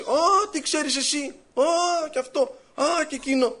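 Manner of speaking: mocking wife's retort. Wife brushing off husband about blouse, scornful retort. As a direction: toss it off scornfully. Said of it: "Πάει ο αδερφός και λέει".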